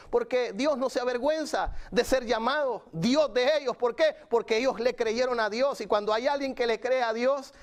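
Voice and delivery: emphatic preaching. Real, not acted. Preacher answers his own question to the congregation, emphatic preaching. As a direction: press the point home like a preacher.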